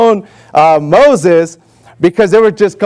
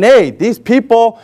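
slow Lord's voice; slower than usual. Retold or imitated. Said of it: "the Lord is saying".

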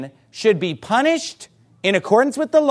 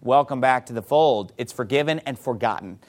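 low, gentle reassurance; meek, forgiving welcome; 7 semitones lower, 3 dB quieter than usual. Acted. Preacher acting out welcoming a restored sinner, meek and gentle. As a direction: soften and drop the voice to welcome them back. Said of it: "spirit of meekness".

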